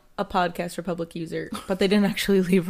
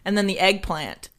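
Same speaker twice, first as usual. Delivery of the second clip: trying not to laugh. Real, not acted. Keep a straight face.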